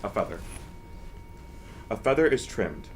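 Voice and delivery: emphatic, declaimed nonsense verse; poetry reading. Acted. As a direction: recite it with weight, punching the key words. Mock-pretentious poetry reading.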